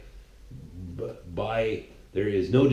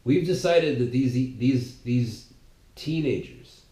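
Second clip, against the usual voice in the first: mock opponents.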